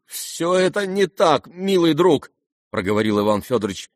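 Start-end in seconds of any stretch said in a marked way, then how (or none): 0.1-2.3 higher-pitched, flustered protest; greatly agitated. A narrator's reading. Father objects to his dear friend, greatly agitated. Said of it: "сильно волнуясь".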